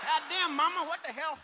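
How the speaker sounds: mock redneck husband.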